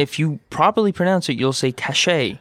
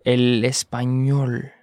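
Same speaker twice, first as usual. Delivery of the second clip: slow model; 3 semitones lower, slower than usual. Shown as a demonstration. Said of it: "slow model for learners".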